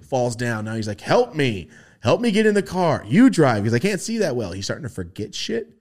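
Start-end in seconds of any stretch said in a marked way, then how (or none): 1.0-4.5 put-on higher, louder pleading old man; lightly voiced frail grandpa asking for help; mock frail grandpa.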